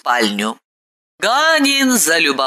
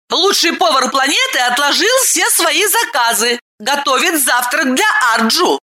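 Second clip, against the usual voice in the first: much higher bossy woman, quick; woman's voice; 9 semitones higher than usual. A narrator's reading. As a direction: order the servant off with a laugh. (высокий женский голос, бойко командует)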